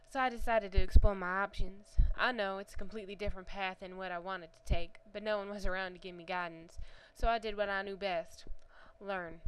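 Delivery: put-on storyteller with a light Southern accent. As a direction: let the Southern accent carry the narration. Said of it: "Sorry about the accent".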